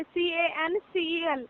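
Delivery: slow letter-by-letter spelling; spelling out slowly. Shown as a demonstration. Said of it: "आप यहाँ पे कैंसिल लिखिए".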